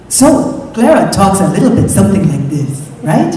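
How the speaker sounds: imitated African accent; hairdresser's African accent. Actor copying her African hairdresser for an audition, imitated African accent. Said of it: "my hairdresser".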